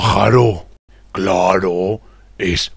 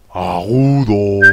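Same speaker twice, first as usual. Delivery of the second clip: voz aguda. Shown as a demonstration. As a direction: lift "Agudo" up lightly and hold it. (voz aguda, alargada)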